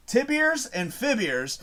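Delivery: slow, careful "Tibiers and Fibiers" with a clear r ending; wrong Tibiers pronunciation. Retold or imitated. Streamer mimicking the actor's odd "Tibiers and Fibiers" slowly. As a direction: spell out "Tibiers and Fibiers" slowly, mocking the mistake. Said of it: "Not tibula and fibula".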